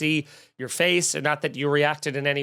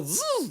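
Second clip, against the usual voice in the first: quick buzzing zip sound; a little zzz sound effect; imitated zip noise; 11 semitones higher, 6 dB quieter than usual. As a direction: imitate a rope zipping off. Imitates rope being unclipped.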